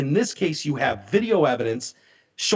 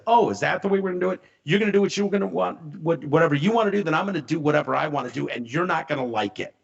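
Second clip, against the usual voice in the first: retold threat; faster than usual. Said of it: "He said".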